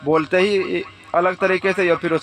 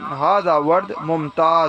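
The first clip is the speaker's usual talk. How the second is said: slow teaching demo; much slower than usual. Shown as a demonstration. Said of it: "تو اس کو عربی زبان میں بولیں گے آپ".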